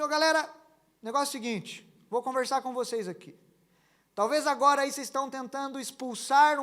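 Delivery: mock pep talk. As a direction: hype up the organs, playful. Playfully talking to wife's organs. (marido brincando, falando com os órgãos da esposa como técnico)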